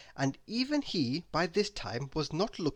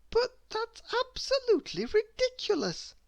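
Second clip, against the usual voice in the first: put-on very high little girl voice; protesting girl. A narrator's reading. Miss Giggles protests to Mister Happy, high and scoffing. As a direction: scoff at the nonsense.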